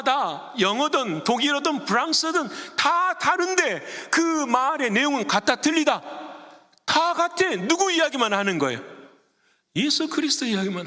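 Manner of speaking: high, insistent pulpit delivery; impassioned sermon voice; fervent preaching. Real, not acted. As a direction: preach it high, pressing each point on the congregation. Preaches at full force.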